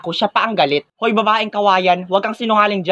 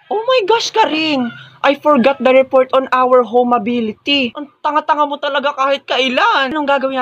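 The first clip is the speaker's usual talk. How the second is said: panicked shriek; 5 semitones higher than usual. Acted. Panicking over forgotten report.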